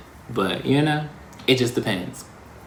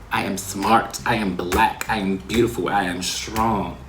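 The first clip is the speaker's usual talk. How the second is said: calm, steady affirmations; affirming; 2 semitones lower than usual. Shown as a demonstration. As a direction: model self-affirmation for viewers. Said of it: "Affirm yourself while saying who you are".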